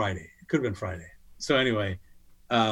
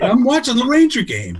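much higher and louder, through laughter; laughing punchline; 12 semitones higher, 9 dB louder than usual. Retold or imitated. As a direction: crack up while repeating the line. Repeating his punchline while laughing.

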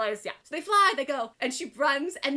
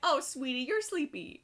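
condescending. Retold or imitated. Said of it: "Mira's like".

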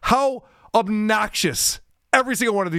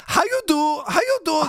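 high-pitched mocking Hispanic accent; 8 semitones higher than usual. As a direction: parody a comedian's put-on Hispanic accent. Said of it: "She doesn't talk like that".

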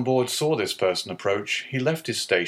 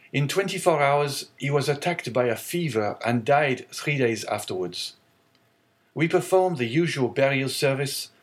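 put-on higher, grave young sailor's voice; mournful young sailor; 4 semitones higher than usual. Young sailor recounts the captain's burial to the owner, mournful.

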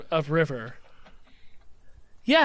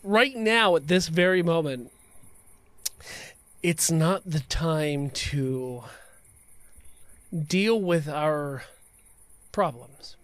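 slow, drawn-out villain menace; slow theatrical villain menace; 3 semitones lower than usual. Acted. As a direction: stretch each word like a movie villain. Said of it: "This is a villain speech".

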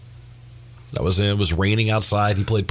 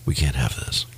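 lower, softer mock-stuffy grumble; mock disapproval; 9 semitones lower, 5 dB quieter than usual. Golf purist objecting to yelling fans, lightly mocked low grumble.

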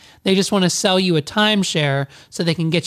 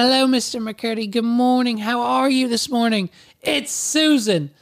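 higher, put-on receptionist voice; Susan; 5 semitones higher than usual. Receptionist calling a guest in the morning, chirpy impression. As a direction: imitate a sing-out female phone greeting. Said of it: "my voice impression keeps changing".

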